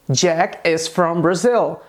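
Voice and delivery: slow "Jack is from Brazil", falling at the end; affirmative statement. Shown as a demonstration. Teacher models the English example, as a slow statement.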